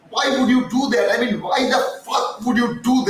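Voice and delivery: real exasperation breaking through; exasperated outburst. Real, not acted. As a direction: vent the frustration. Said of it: "I'm getting excited".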